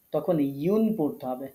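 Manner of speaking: ইউন said slowly as yun; yun ending. Shown as a demonstration. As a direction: draw out ইউন, not উন. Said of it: "তখন উন পড়লে আর হবে না". (ধীরে ইউন উচ্চারণ)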